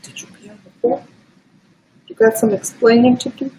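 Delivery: squeaky, breathy pet-talk scolding; high baby voice to the dog. Pretend. Owner scolding her puppy in a squeaky baby voice. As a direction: tease the puppy in a tiny high voice.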